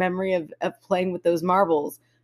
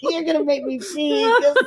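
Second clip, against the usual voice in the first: after laughing hard; 9 semitones higher than usual. Real, not acted. Laughing uncontrollably.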